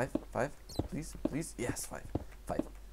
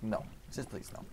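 soft, polite plea; saying it nicely; 13 dB quieter than usual. Shown as a demonstration. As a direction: refuse gently and nicely. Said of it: "I'm saying it so nicely".

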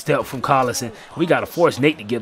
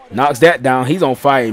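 excited call; 7 dB louder than usual. Real, not acted. Excited call of a deep three.

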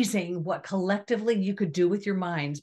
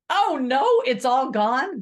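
mock dismay; 5 semitones higher, 5 dB louder than usual. Mocking sudden loss panic.

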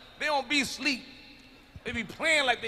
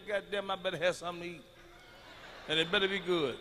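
normal talking voice

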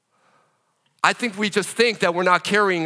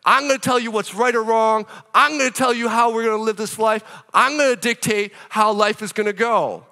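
mock bossy insistence; 4 semitones higher than usual. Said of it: "that's what North America usually says".

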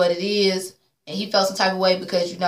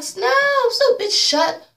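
put-on high, loud drunken yell; mock bullhorn yell; 12 semitones higher, 4 dB louder, much slower than usual. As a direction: blare it like a broken bullhorn. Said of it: "You sound like a bullhorn".

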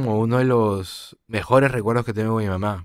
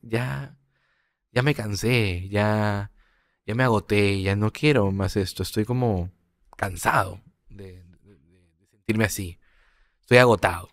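weary confession; slower than usual. Retold or imitated. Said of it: "expresando esto de".

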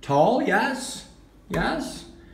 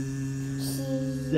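buzzing bee; 4 semitones lower, 10 dB quieter than usual. Shown as a demonstration. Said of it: "what sound does the bee make".

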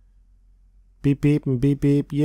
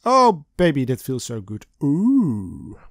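moaning. A narrator's reading. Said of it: "you moan".

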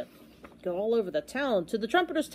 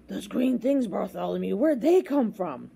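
shocked question. Acted. Trumpeter first sees the oobleck, shocked. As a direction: ask it in mild shock.

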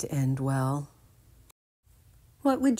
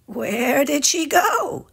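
higher, slow anxious question; worried Ginger; 10 semitones higher, 5 dB louder, slower than usual. Acted. Ginger asking the gang, high and worried. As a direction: ask with worry. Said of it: "asked Ginger".

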